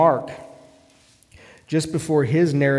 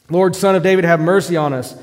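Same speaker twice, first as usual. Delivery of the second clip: high, loud desperate cry of "Lord, Son of David"; louder shout; 5 semitones higher, 9 dB louder than usual. Retold or imitated. Blind men shouting past the crowd, loud and high. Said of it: "they shouted all the louder".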